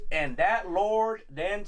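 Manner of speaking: very slow put-on Southern drawl; drawn-out Southern slave-owner impression; mock Southern accent. Friend imitates actor's slave owner, slow Southern drawl. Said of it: "that is how he sounds".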